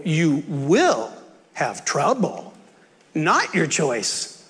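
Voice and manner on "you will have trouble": "will" drawn out and slow; stress on will. Shown as a demonstration. Preacher contrasting may with will, stressed "will". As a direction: lean slowly on "will", leaving no option.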